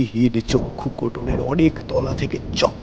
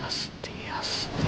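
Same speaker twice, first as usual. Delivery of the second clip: slow hushed whisper; 9 dB quieter, slower than usual. A narrator's reading. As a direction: draw the listener in, slowly. Narrator whispers the slow rising. (ধীরে ফিসফিস করে)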